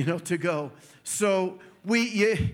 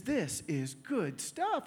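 soft, slow savoring; savoring taste; 8 dB quieter, much slower than usual. Retold or imitated. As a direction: relish every word softly. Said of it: "And he says".

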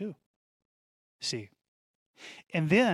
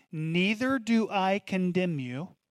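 tender repeat; 3 semitones higher, slower than usual. Acted. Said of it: "I wanna say that again".

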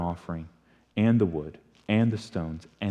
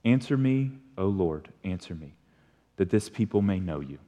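soft, low pleading prayer; earnest prayer; 3 semitones lower, 4 dB quieter than usual. Retold or imitated. Elijah praying before the soaked altar, soft and earnest. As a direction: pray it quietly and sincerely. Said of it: "This is Elijah's prayer".

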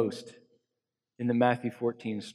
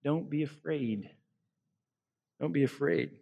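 soft and tender, slowing to a hush; gentle voice of Jesus; 4 dB quieter than usual. Retold or imitated. Pastor voicing Jesus to the sinking, soft and tender. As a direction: reassure a frightened listener softly. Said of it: "can you hear that voice of Jesus saying".

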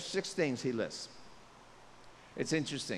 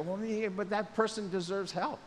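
mock self-righteous; 6 semitones higher, 4 dB louder than usual. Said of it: "we go".

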